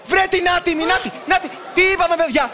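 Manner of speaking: high-pitched, agitated call; rally the children against the villain. Acted. Pilot spots the sneaky fox, agitated rallying cry.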